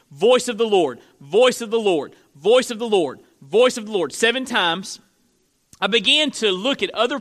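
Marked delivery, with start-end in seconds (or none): 0.1-4.1 "voice of the Lord" repeated with identical punch on VOICE, falling on Lord; emphatic repetition. Shown as a demonstration. Preacher showing the psalm's repetition, "voice of the Lord" chanted emphatically. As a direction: hammer VOICE in each "voice of the Lord", same falling tune every time. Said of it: "this emphasis, this repetition".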